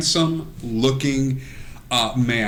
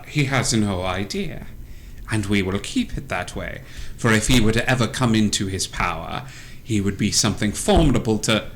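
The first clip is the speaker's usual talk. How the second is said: low, hushed conspiratorial character voice; secretive plotting witch; 4 semitones lower, 4 dB quieter, faster than usual. Acted. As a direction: confide a dark secret, low and soft. Plays Baba Lasagna speaking secretively.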